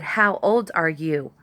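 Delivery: put-on slow, pointed "How old are you?" with stress on "old"; insistent repeat. Woman pressing the man again for his age, slow and pointed. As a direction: press the question again, slowly. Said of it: "I said".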